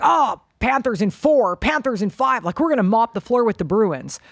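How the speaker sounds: a touch of hyped-up fan bravado; overconfident fans. Retold or imitated. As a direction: imitate fans boasting about an easy win. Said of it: "the fans are a lot more like".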